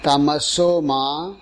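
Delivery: "Tamaso Ma" spoken slowly as its own chunk, rising at the end; word by word. Shown as a demonstration. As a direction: say "Tamaso Ma" alone, slow and clear for repeating. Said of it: "one word at a time".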